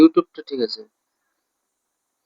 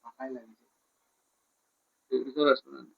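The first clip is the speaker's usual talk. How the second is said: much softer, low-volume murmur; hushed talk; 3 semitones lower, 7 dB quieter, faster than usual. Real, not acted. Speaking low to a companion so nobody overhears, hushed. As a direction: keep it down, barely audible. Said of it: "আস্তে কথা বলছো কেন".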